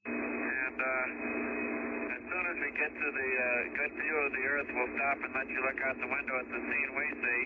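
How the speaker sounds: crackly radio transmission; astronaut radio. Real, not acted. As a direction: voice over a radio link. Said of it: "clips from that broadcast".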